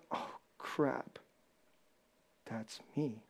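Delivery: mock whisper, soft and low; whispered realization. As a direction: breathe it like a caught listener. Voicing listener realizing.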